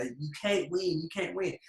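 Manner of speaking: lightly mimicked Southern US taunt; gloating Southern accent. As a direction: gloat with a slow, slight Southern drawl. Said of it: "Like, proper gloating".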